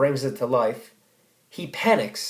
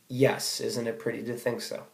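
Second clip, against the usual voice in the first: a touch of quiet calm, fading softer; calm reply; 5 dB quieter than usual. Retold or imitated. Jake calmly answering Brett, quietly resigned. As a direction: answer her gently, as if it doesn't sting. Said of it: "Jake just very calmly says".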